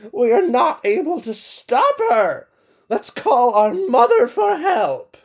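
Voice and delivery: high, put-on blizzard voice, slowing at the end. Beaten blizzard proposing to call their mother, high voice. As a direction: call for mother, squeaky and urgent.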